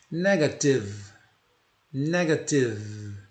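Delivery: "Negative" slow, ending on v; "Negative" said slowly and closed on the v; slow pronunciation model. Shown as a demonstration. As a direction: stretch "Negative" and stop on the v. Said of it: "Morre no V".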